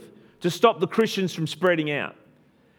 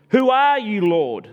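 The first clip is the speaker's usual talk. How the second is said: loud, high frightened question; a stunned Saul cries out, Who are you, Lord?; urgent cry; 5 semitones higher, 5 dB louder, slower than usual. Acted. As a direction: cry out to the unseen voice. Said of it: "Saul asked".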